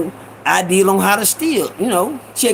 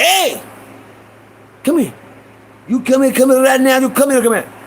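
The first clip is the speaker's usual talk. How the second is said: high, insistent calling, over and over; angry Iranian shopkeeper; 6 semitones higher than usual. Retold or imitated. Shopkeeper catches the boy at the door, imitated high and insistent. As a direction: catch the thief with urgent, high-pitched orders. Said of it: "it was the Iranian motherfucker".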